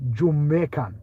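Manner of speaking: put-on Jamaican lilt; Jamaican accent. Switching accents for the stream, Jamaican accent. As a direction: slip into a mock Jamaican accent. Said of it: "try Jamaican".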